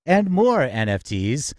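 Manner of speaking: polished radio-host opening, measured pace; upbeat host welcoming listeners to the hour; show announcer read. Acted. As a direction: open the show like a broadcast announcer.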